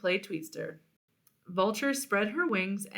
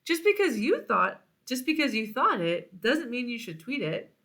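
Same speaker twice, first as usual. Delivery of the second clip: high, indignant scolding; the vulture telling off her friend, indignant; 3 semitones higher than usual. Acted.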